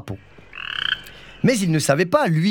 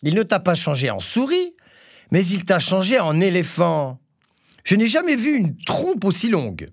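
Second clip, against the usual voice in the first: higher, mocking goat call; goat crying out; 5 semitones higher than usual. Goat calls from her window to the elephant wolf, mocking. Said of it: "Elle lui cria".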